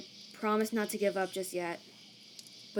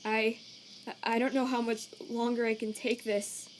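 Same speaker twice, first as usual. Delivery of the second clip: weary despair; 3 dB quieter than usual. Acted. Sans despairs, close to breaking down.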